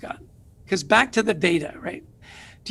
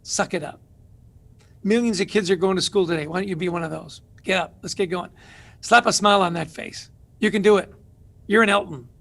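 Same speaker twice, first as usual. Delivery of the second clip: tough-love dad. Retold or imitated. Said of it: "I told him the same thing".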